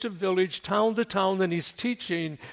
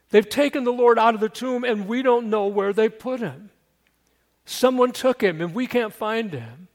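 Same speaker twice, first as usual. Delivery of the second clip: panicked voice; 2 semitones higher than usual. Retold or imitated. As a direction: blurt it out in mild panic. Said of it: "A little bit of panic in her voice".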